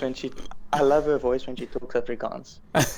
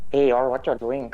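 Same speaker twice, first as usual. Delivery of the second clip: South African doing an Indian accent; quick demo of an Indian accent. Shown as a demonstration. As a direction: lightly imitate a Durban Indian accent. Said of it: "a South African do an Indian accent".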